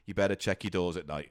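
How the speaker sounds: low, threatening hitman warning; menacing hitman. Pretend. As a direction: mutter it like a shady hitman. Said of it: "one dodgy, uh, thank you".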